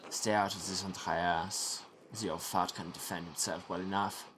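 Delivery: put-on dismissive monk, French accent drifting toward English; slipping French accent. Brother Guy rebuffing Andreas, slipping French accent. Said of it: "now it's just Guy from Leicester".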